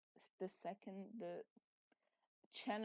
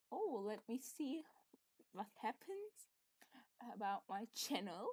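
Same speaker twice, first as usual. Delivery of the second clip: whispered thought; 7 dB quieter than usual. Retold or imitated. Retelling own thought, whispered.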